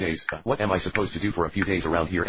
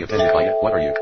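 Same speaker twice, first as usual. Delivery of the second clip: indignant shout; 7 dB louder than usual. Acted. Offended creature, loud retort.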